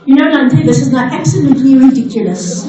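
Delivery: lightly voiced scolding mommy; a hint of a mother telling off a child; measured motherly telling-off, only lightly acted. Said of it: "in my mommy voice".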